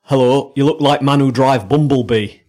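deliberately bad mock Chinese accent. Podcaster goaded by co-host to give it a go, deliberately bad Chinese accent. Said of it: "try your Chinese accent".

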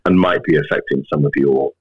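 low, grave doctor breaking bad news; sinister doctor voice. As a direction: deliver doom gravely, a hint sinister. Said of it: "in a very sinister doctor voice".

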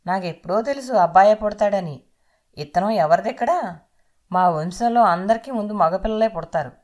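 loud, proud rant over the bike noise; boastful shouting husband. Acted. Husband shouts to his pregnant wife while riding, boastful. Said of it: "గట్టిగా అరుచుకుంటూ చెప్పుకెళ్ళిపోతున్నాడు".

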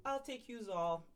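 high, mocking Jersey tough-lady voice; a hammed-up Kim D brushing off fear; imitating Kim D. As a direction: play her like a fearless gangster grande dame, way up high. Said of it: "Kim D's like".

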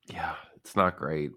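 whispered smoker's rasp; hoarse raspy whisper. Pretend. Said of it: "I have the smoker's cough".

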